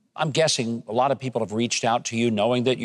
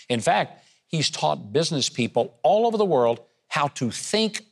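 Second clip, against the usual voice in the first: measured build-up to a lifted welcome; show host introduction. Real, not acted. Host bringing on a magician for the audience, announcer-style introduction. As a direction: introduce the star act with emphatic key words and a rising finish.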